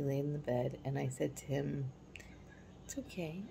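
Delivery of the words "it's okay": soft whispered okay, a little higher; mother whispering comfort to her crying son; soothing whisper. Retold or imitated. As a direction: breathe it gently to settle him.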